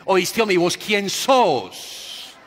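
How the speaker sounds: put-on high, loud call of a deaf old man; old man shouting. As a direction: shout across the whole bus. Old man demands who it is. (el viejito grita a todo el bus)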